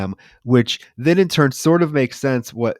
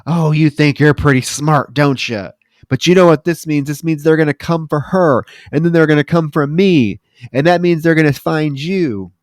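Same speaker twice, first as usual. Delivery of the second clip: louder, taunting threat; angry warning to the rat; 4 semitones higher, 5 dB louder than usual. Retold or imitated. Willard warning Ben the rat, louder and tense. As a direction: threaten the rat with rising anger. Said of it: "he's like".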